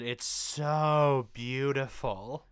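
slow, awed it's so beautiful; drawn-out awe. Retold or imitated. Co-host reads his own note in slow awe. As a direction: stretch out the so in wonder. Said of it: "I said".

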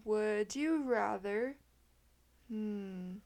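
speaking through a yawn. Real, not acted. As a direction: stretch it out mid-yawn. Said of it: "Sorry, I just yawned".

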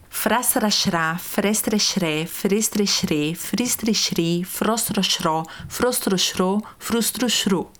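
frestrexré through frustruxru drawn out slowly, syllable by syllable; over-articulate slowly; slow articulation drill. Shown as a demonstration. Teacher modelling tongue twister syllables slowly. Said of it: "a próxima sequência".

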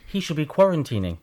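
muffled behind a face mask; through a face mask. Real, not acted. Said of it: "I'm wearing a mask at the moment".

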